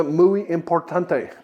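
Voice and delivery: slow, hammed-up Spanish accent on muy importante; mock Spanish accent. Joking to viewers about a pie dough tip, slow mock Spanish accent. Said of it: "as they say in Canada".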